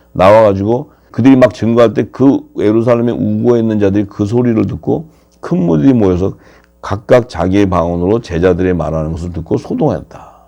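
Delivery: ordinary talk, nothing marked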